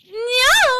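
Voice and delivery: sudden high shriek of denial; scream. Acted. Caught suspect screaming no. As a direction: scream it out in shock. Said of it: "Wow, that was a scream".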